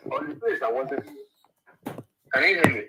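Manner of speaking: caller heard over a speakerphone; distant, thin phone-line voice; phone speaker. Real, not acted. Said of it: "You're on speaker".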